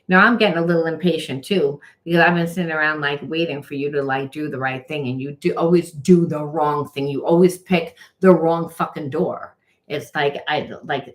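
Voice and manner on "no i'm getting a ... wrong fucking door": impatient rant. Retold or imitated. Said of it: "staying angry and being like".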